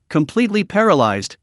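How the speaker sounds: paralyzed leaned on with pointed weight; mildly mocking stress on paralyzed. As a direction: press hard on paralyzed to needle him. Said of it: "deliberately emphasized the word paralyzed".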